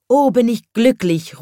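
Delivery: high, bright joyful call; happy cry. A narrator's reading. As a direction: shout out pure happiness. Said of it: "ruft dann der kleine Schornsteinfeger".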